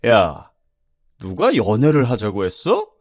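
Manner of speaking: acted indignant scolding, loudest on the reproach; angry customer. Rebuffed customer berates the waitress, angry. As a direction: scold her loudly, then grumble off in disgust. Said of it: "아저씨가 화를 내면서".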